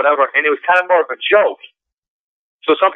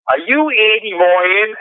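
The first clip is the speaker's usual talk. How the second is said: starstruck fan; 7 semitones higher, much slower than usual. Retold or imitated. Girl fan recognizes him.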